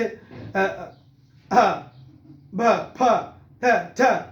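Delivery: isolated consonant sounds, short and clipped; letter sounds. Shown as a demonstration. Teacher sounding out letters one by one. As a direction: sound each letter alone. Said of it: "इसी तरह की आवाज़ें".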